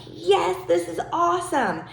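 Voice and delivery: a hint of a fan loving the crowd; mock concert thrill. Coach voices a past concertgoer, mild mock excitement. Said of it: "you're like".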